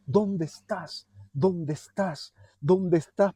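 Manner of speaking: slow tender call. Acted. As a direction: call gently, slowly, like seeking someone lost. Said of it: "podemos ver que dice".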